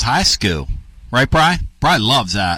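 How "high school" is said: "school" said like "skoo"; imitated accent. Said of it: "that's the way he says".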